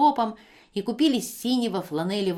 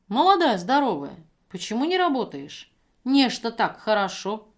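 reproach; 3 semitones higher, 5 dB louder than usual. Acted. Евдокия упрекает пьяную женщину.

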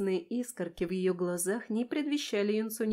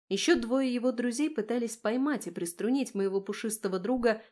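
ordinary delivery

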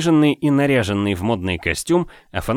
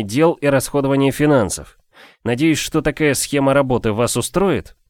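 a bit higher, firm and measured; lightly voiced businesslike gentleman; 4 semitones higher than usual. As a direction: lay out terms calmly but firmly. Narrator voices his own character.

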